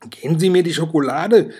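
put-on whiny demanding boy; whining. A narrator's reading. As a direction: whine it like a suspicious boy. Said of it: "jaulte Bruno".

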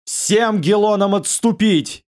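slow, high otherworldly command; inhuman voice. Acted. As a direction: order the retreat in a monstrous voice. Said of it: "нечеловеческим голосом".

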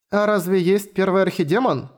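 put-on a small curious girl asking; young girl voice. Girl Latina's voice. (голос маленькой девочки)

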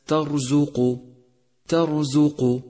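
ترزق with a full heavy R; heavy R demo. Shown as a demonstration. Teacher showing students the heavy R. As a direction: give the R in ترزق weight. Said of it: "لونت الراء في كلمة".

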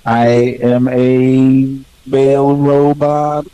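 slow stiff robot voice. Pretend. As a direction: speak like a machine, slowly. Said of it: "not really much of a robot".

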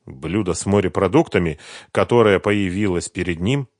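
usual speaking voice

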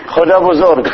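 خدا بزرگ said as a plain Persian example; Persian takbir. Shown as a demonstration. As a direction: give the Persian phrase as a bad example. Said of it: "بالفارسي ما يصير". (التكبير بالفارسية)

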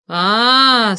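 a dreadful raging scream; terrible yell. A narrator's reading. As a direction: let out a furious drawn-out roar. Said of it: "страшным голосом закричал".

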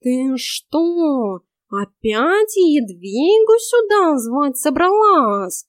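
cat staring in disbelief; shocked talking cat; goggling cat. A narrator's reading. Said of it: "вытаращился кот".

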